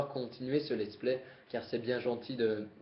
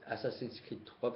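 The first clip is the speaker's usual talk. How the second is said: put-on "Assassin's Creed" said slowly in a jokey English accent, softer; mock English accent; 5 dB quieter than usual. Vlogger showing off his English accent to viewers, playful. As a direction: ham up an English accent on the game title. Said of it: "avec mon super accent anglais".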